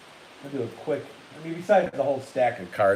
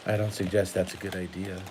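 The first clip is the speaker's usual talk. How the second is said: computer voice; 3 semitones lower, 8 dB quieter than usual. Retold or imitated. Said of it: "from Space Odyssey, uh, the computer".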